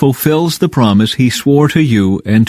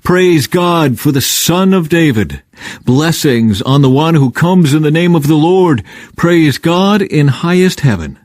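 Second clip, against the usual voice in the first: lightly voiced joyful crowd cheer; crowd shouting; 5 semitones higher than usual. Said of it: "the people all around him were shouting".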